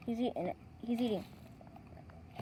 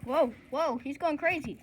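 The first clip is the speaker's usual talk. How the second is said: excited; 3 semitones higher, 5 dB louder than usual. Real, not acted. Tortoise lunges wildly at rind.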